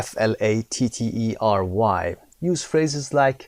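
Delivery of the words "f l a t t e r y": F L A T T E R Y spelled fast, one letter at a time. Shown as a demonstration. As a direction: rattle off the letters F L A T T E R Y quickly. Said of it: "for those who are listening to this file".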